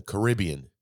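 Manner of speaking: "Caribbean" as kuh-RIB-ee-un; kuh-RIB-ee-un, stress on RIB in "Caribbean". Shown as a demonstration. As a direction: say "Caribbean" with stress on the second syllable. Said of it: "Caribbean sounds like you know what".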